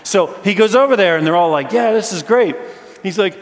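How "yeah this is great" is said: high, loud cheer; excited crowd. Retold or imitated. Crowd cheering the walker, high and loud.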